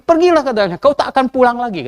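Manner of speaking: prophet's warning. Retold or imitated. Prophet Mika repeats his warning to Ahab, stern. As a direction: warn him off with a stern push.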